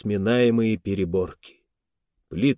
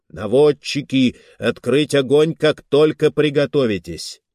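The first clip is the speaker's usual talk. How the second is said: commanding order; 3 semitones higher, 4 dB louder than usual. Acted. Admiral orders gunners to fire.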